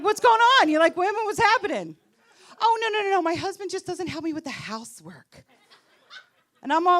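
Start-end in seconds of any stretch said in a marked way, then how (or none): 0.0-2.0 high, excited mock questioning; eager pouncing. Wife eager to recruit a friend, mock excited questioning. 2.6-5.4 high mock protest, easing down; flustered friend. Straight friend complaining about her husband, mock flustered protest.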